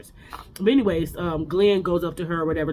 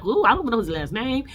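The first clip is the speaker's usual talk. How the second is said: higher-pitched mock protest; retold indignant denial; 6 semitones higher than usual. Accused castmate denying contact with ex-employee, acted indignant denial. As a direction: imitate someone denying it, pitched up.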